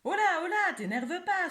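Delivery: high, loud startled squeak; startled little mouse. Acted. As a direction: jump in fright and protest. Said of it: "sursaute la souris".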